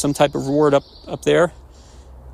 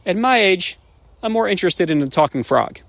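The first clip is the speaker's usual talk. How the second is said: put-on old man's reply; 4 semitones higher than usual. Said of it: "And he says".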